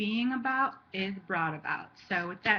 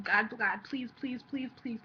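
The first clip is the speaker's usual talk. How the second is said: mock begging; 2 semitones higher, slower than usual. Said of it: "a place of begging".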